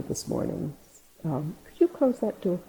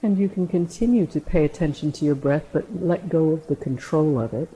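guided meditation=32. Acted. Leads a meditation.

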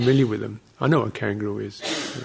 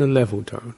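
"level tone" held even, near usual pitch; level tone demo. Shown as a demonstration. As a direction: keep "a level tone" steady, neither up nor down. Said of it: "very clear system of tones".

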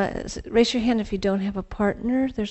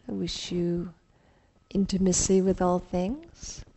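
guided meditation. Acted. Leads a mindful partner exercise.

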